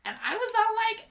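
put-on high, girlish kid-sister voice reading her diary; bratty kid sister reading her diary aloud; sister's voice. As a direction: read it as your little sister, whiny and dramatic. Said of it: "Should I do it in my, my sister's voice?".

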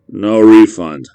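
slow, loud sleepy grunt; barely awake brush-off; groggy Mike. Acted. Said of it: "responded a groggy Mike".

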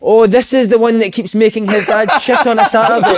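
chuckling while voicing the gaffer's joke; laughing through quote. Manager joking, laughing.

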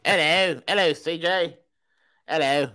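put-on Australian greeting; Australian accent. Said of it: "It's Australian V this morning".

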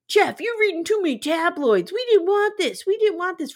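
high, whiny mock protest; Cody. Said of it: "And Cody's going".

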